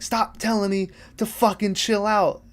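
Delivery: high, fed-up retort without real volume; mock exasperation. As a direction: act out snapping at a friend. Acted quarrel, character freaking out.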